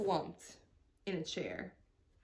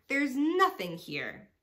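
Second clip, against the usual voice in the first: higher and louder call; hollered; 7 semitones higher, 6 dB louder than usual. A narrator's reading. Trixie the rat hollers from the bed, loud. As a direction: shout the empty find. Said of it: "she hollered".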